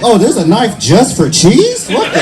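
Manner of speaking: baffled by a fancy novelty; mock amazement. Acting out amazement at cheese knife.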